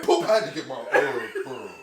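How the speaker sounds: winding-down mumble. Retold or imitated. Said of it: "Like someone just pulled the plug".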